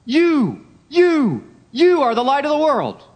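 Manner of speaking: YOU punched high, three times over; ringing declaration stressing YOU; emphatic YOU. Acted. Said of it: "so that the you is very strong".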